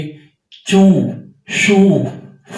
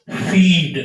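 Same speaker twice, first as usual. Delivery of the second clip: slow demo word; much slower than usual. Shown as a demonstration. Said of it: "एक बात समझनी है".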